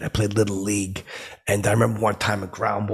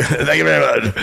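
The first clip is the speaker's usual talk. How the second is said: louder emphatic thanks; 5 semitones higher, 6 dB louder than usual. Retold or imitated. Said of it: "and I go".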